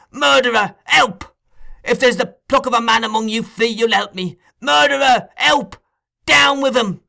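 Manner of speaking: high, loud, frantic cries for help; a boy yelling murder at the top of his lungs; frantic shouting. A narrator's reading. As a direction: scream the house down in terror and rage. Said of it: "becoming more and more excited as he spoke".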